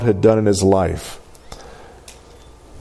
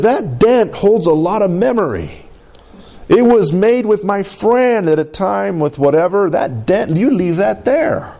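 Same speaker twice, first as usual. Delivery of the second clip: higher, mock Southern tow truck voice; a hint of Southern accent, pitched up as Mater; 8 semitones higher than usual. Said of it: "a better, better accent than that".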